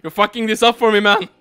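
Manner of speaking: mock angry. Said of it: "have to call you up".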